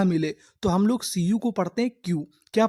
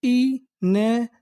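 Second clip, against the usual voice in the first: slow teaching read; 2 semitones higher, slower than usual. Shown as a demonstration. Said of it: "तो हमारी पूरी meaning क्या बनी?".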